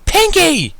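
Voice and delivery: high, loud exasperated yell of a name; angry shout. Acted. Rarity and Rainbow yelling at Pinkie together, loud and high. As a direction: shout at the culprit in fury. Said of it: "Rarity and Rainbow shout".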